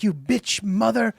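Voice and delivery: high-pitched imitation of online insults; squeaky parody of a foreign troll; mock insult rant.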